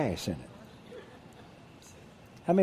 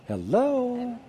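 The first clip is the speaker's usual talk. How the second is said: rhetorical hello; 10 semitones higher than usual. Real, not acted. Preacher prods congregation.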